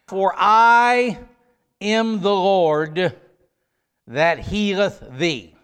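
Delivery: emphatic, stretched I at the start; stress on I. Shown as a demonstration. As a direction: lean hard on the word I, then ease off. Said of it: "is emphatic in the Hebrew".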